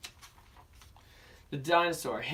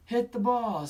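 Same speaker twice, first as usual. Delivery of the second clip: excited cheer; 9 semitones higher, 5 dB louder than usual. Acted. Danny cheering at ball game.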